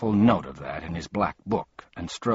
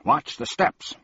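advising. A narrator's reading. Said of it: "advised the policeman".

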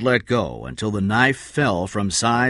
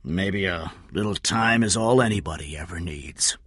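quiet sad musing; soft and resigned; 3 semitones lower, 4 dB quieter than usual. Acted. Cy reflects to Corella, quiet and sad. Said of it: "a sadness in his voice".

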